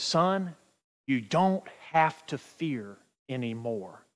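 put-on gently calm a frightened child, slowly; fatherly reassurance. Father tells son not to fear, reassuring.

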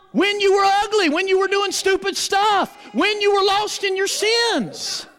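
preaching shout. Acted. Pastor pressing the congregation, rising preaching shout. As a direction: drive each "when you were" home.

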